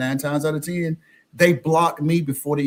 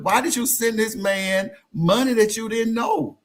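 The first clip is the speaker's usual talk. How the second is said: pitched-up, incredulous scolding with some laughter; exasperated questioning; 6 semitones higher than usual. Retold or imitated. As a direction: plead with them as if shaking sense in. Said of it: "just shake these ladies".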